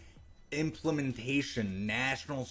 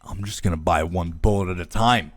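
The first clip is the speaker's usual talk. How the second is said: sarcastic; 3 semitones lower, 8 dB louder than usual. Acted. Mocking the law, sarcastic.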